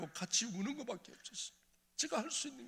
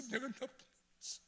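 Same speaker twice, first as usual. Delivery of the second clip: softer, high, breaking 내가 나쁜 놈이었어; broken repeat; 9 semitones higher, 6 dB quieter than usual. Retold or imitated. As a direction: let the repeat crumble. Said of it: "아니야, 아니야". (아내에게 무너지듯 조용히 반복)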